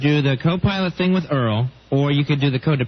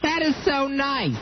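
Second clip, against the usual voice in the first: sarcastic; 10 semitones higher, 4 dB quieter, slower than usual. Acted. Sarcastic reply to hash joke.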